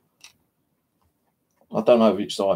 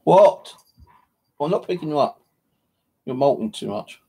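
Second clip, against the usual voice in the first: talking to the pet; 9 semitones higher than usual. Real, not acted. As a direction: shoo the clingy pet away, half annoyed. Talking to her molting pet.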